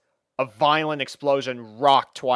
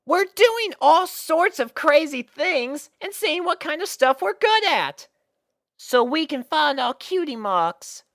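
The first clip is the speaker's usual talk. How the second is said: very high, excited filly voice; eager explaining; 5 dB louder than usual. Acted. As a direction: explain it all at once. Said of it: "added Apple Bloom".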